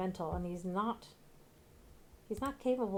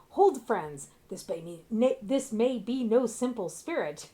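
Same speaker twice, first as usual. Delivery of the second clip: mock heroic dialogue; 3 semitones higher, 5 dB louder than usual. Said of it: "What corny dialogue".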